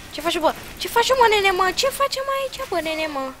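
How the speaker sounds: high loud teasing taunt; high jeering call at the opponent; mocking taunt. Real, not acted. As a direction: taunt the enemy. Mocking enemy in game.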